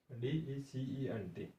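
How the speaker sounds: spelled out slowly; slow, separated letters for learners. Shown as a demonstration. Teacher spells out the word. (एक-एक अक्षर धीरे-धीरे)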